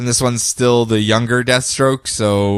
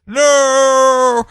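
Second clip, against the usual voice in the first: Deathstroke; 12 semitones higher, much slower than usual. Retold or imitated. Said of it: "Deathstroke's like".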